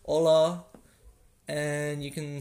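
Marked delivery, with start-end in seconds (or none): 0.1-0.6 HOLA said with no H sound; silent H. Shown as a demonstration. Teacher showing learners the Spanish greeting, silent H in HOLA. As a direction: drop the H in HOLA, starting on the O. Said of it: "it's pretty much silent".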